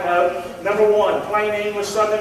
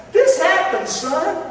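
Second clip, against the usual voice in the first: God answering; 10 semitones higher, 3 dB louder, slower than usual. Acted.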